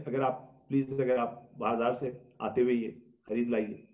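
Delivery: soft, courteous request; wife politely asking husband to buy something; polite, not angry. Shown as a demonstration. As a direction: ask gently instead of scolding. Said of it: "بجائے غصے سے بولنے کے".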